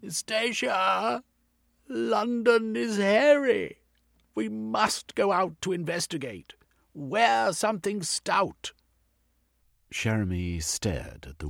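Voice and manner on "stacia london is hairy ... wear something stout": loud, high call up the stairs; shouting upstairs. Acted.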